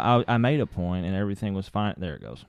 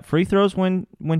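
emphatic; 11 semitones higher, 6 dB louder than usual. Real, not acted. Hammering home his point.

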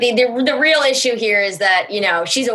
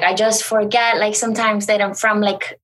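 lightly imitated confused excuse; a hint of an affected, confused celebrity; Hilaria. Comic recalling her viral video, lightly imitated confusion. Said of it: "I did an impression of Hilaria".

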